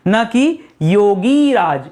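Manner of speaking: योगी राज said very slowly after न कि; slow it down to show the wrong form; slow contrast. Shown as a demonstration. Teacher slowly sets the wrong योगी राज apart. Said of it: "गलत है".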